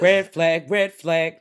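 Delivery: loud, high warning chant; alarm call. Real, not acted. Co-host reacting to the killed hamster, loud alarm.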